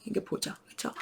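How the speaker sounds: hushed aside to the parents; whispered aside. Real, not acted. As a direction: drop to a whisper. (속삭이듯)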